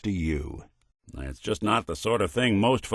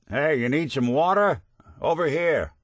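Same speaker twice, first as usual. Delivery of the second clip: higher-pitched call to a companion; 6 semitones higher than usual. Acted. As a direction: call them over to look. Calling companion to found supplies.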